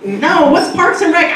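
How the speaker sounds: a breezy, careless young guy, voiced lightly; assistant impression. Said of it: "he kinda talks like this".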